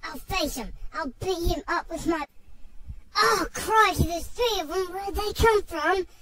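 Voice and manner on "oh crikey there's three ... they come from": loud, panicked surprise; hammed-up alarm; alarmed shout. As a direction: shout out at the sudden dingoes. Three dingoes appear.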